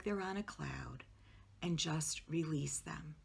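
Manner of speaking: calm guided relaxation with long pauses; guided meditation. Acted. Social worker guiding listeners to relax their bodies, guided meditation. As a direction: lead them gently through the relaxation, pausing between phrases.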